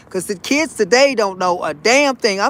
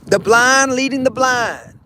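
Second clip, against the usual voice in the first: wise elder saying; 3 semitones higher than usual. Retold or imitated. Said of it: "saying delivered as elder".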